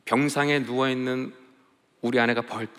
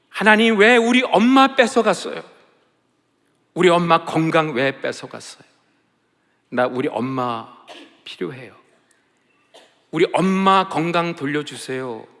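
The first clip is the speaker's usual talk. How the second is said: loud tearful plea to God; wailing prayer; 4 semitones higher, 7 dB louder than usual. Retold or imitated. Daughter crying out to God for her sick mother. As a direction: wail the question, then plead. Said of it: "막 통곡하면서 이 아이가 기도하는 거예요".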